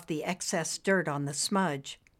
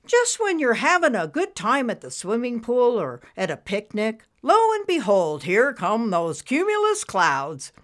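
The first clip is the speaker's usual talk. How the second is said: animated, swooping cloud voice; showy storybook cloud voice; lively cloud character; 4 semitones higher, 4 dB louder than usual. Acted. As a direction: play a chatty cartoon cloud.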